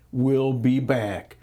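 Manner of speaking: "We'll be back" drawn out slowly and pointedly; slow quoted phrase. Shown as a demonstration. Speaker mocking the headline, slow pointed "We'll be back". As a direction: lay out "We'll be back" slowly as damning evidence. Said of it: "right there is the narrative".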